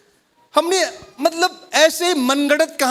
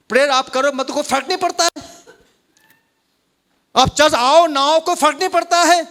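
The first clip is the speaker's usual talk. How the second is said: mocking the lie; 3 semitones higher than usual. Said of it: "जैसे झूठ शैतान यहां पर डाल दिया है".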